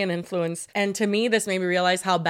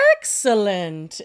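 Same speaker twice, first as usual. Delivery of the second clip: "Excellent" stretched out slowly, first syllable leaning hard; drawn-out exclamation; 2 semitones lower, much slower than usual. Shown as a demonstration. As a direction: draw out "Excellent" like a showy exclamation. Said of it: "It's like when someone goes".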